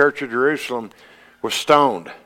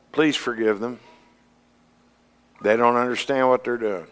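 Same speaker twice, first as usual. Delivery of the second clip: tender prayer; 3 dB quieter than usual. Retold or imitated. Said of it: "And what our Lord say?".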